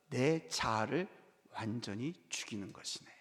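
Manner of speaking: 다정하게 깨우쳐 주듯; gentle elder's answer. Retold or imitated. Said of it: "제가 뭐라고 말했을까요?". (김 선생에게 조용히 타이르는 목사)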